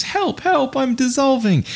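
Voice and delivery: very high, tiny cartoon cry for help; squeaky polar bear. Teacher's chemistry joke, the polar bear melting away, very high squeaky panic. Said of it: "Polar bear goes".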